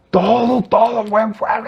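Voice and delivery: high, strained mock preacher yell; mock fervent shouting. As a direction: imitate someone bellowing prayers like a trumpet. Imitates shouting, trumpet-voiced praying brothers.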